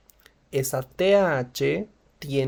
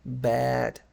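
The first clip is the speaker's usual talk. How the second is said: sad intonation. Shown as a demonstration. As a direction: sound like you're feeling bad. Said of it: "Escuchen la entonación también".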